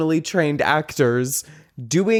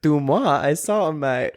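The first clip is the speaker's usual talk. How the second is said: bad French accent. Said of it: "I can't speak French".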